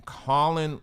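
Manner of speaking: "Colin" drawn out slowly, first vowel open as in "collar"; uncertain name pronunciation. Shown as a demonstration. Host trying a player's name, slow open-vowel "Colin". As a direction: say "Colin" slowly as KAH-lin. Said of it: "however you say it".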